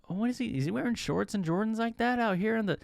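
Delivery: downplaying. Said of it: "people start downplaying it".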